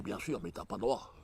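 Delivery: hushed conspiratorial whisper. Retold or imitated. Telling his friend the rules, under his breath. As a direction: lean in and whisper it.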